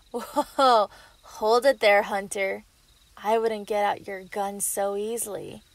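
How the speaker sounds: a loud, commanding warning, stopping him cold. Acted. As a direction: bark the order before he draws. Villain warns armed hunter.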